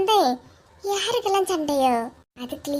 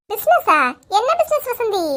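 hear the news and perk up; business? said high and startled; surprised; 5 semitones higher than usual. Acted.

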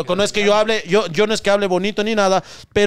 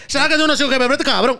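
put-on higher, whiny drunk plea; mock pleading drunk; 7 semitones higher than usual. Retelling the drunk's plea for money, pitched higher and whining. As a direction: beg for cash in a higher whine.

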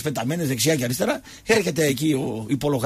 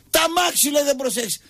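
high, hammed-up complaint; mock outraged cry; 9 semitones higher than usual. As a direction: imitate an aggrieved driver wailing. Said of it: "φωνάζουνε διασύμαντα πράγματα".

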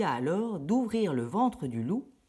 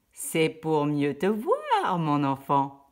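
sly wolf; 5 dB louder, much slower than usual. Acted. Le loup déguisé répond.

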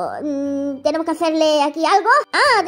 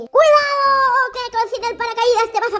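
alarmed warning; 4 semitones higher than usual. Acted. Warning girl without parachute.

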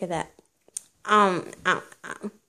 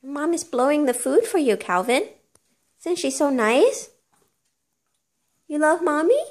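saccharine; 6 semitones higher than usual. Real, not acted. Cooing at baby.

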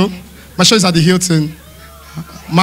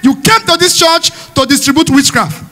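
mock pastor; 4 semitones higher than usual. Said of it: "He said".

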